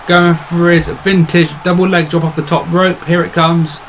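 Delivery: lively play-by-play call; wrestling commentator. Acted. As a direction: hype up the match like a ringside announcer.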